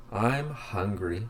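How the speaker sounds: slow, announced lesson title; slow title read. Shown as a demonstration. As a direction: read it out slowly like a chapter heading. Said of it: "Lesson five".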